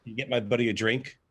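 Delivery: calling out over the music to the bartender; loud call for a drink; yelling across the bar. Retold or imitated. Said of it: "And I yell".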